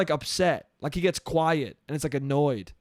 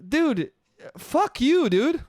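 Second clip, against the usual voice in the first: higher-pitched, mildly indignant retort; exasperated, pitched-up imitation of friends objecting; 8 semitones higher, much slower than usual. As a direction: retell it as a mock-outraged comeback. Friends reacting to his hypocrisy.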